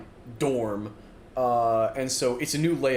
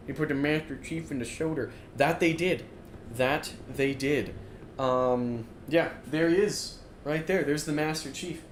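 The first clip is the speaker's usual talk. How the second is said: muffled by helmet; 3 dB quieter than usual. Real, not acted. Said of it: "can actually hear me at all when I'm wearing the Master Chief helm".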